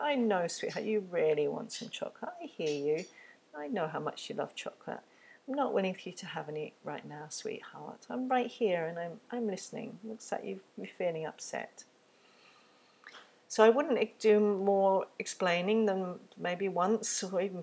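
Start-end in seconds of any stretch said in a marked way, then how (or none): 0.0-11.8 gentle empathy. Shown as a demonstration. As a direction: stay kind while holding the limit. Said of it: "It's giving the empathy first".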